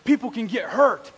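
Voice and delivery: loud, lightly imitated telling-off; scolding teacher. Teacher scolding first grader over wood chips, mock stern scolding. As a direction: drive each word home like a mock scolding. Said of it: "she starts jamming it, spearing it into my palm, going".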